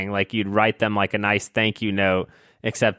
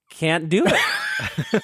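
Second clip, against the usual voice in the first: laughing groan; 9 semitones higher, much slower than usual. Real, not acted. Groaning at being asked for praise.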